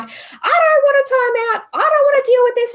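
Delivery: put-on high, childlike refusal; mock petulant protest. Wife re-enacting her reply to husband, mock petulant. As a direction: whine back like a kid refusing timeout.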